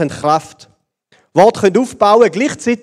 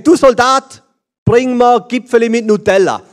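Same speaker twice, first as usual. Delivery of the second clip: higher, louder mock command; bossy captain; 5 semitones higher, 4 dB louder than usual. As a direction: play the boss barking an order. Captain ordering his soldier.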